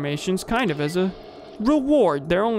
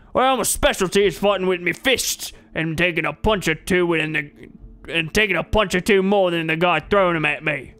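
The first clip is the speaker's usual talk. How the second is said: lightly voiced hearty old brawler; a friendly bearded fighter greeting a lad; burly trainer; 2 semitones higher, 3 dB louder than usual. McRae voice again.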